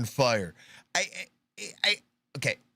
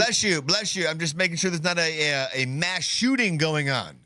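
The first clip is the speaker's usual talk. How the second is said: slightly mock-polite, higher-pitched bystander; lightly acted anxious politeness; 3 semitones higher than usual. Host as bystander blessing a sneezer during gunfire, lightly mock-polite. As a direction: lightly play a courteous man trying to get an answer.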